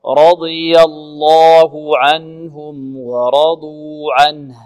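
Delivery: slow, drawn-out chanted recitation; Quran recitation. Shown as a demonstration. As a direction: recite it slowly with tajweed. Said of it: "teacher models recitation". (ترتيل بطيء)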